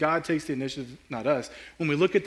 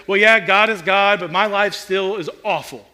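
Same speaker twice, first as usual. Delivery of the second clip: louder, frustrated venting, some words drawn out; weary complaint; 3 semitones higher, 6 dB louder than usual. Retold or imitated. Lackadaisical churchgoer venting about an unchanged life, frustrated. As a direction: complain like someone who has given up. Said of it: "this mindset and this posture of".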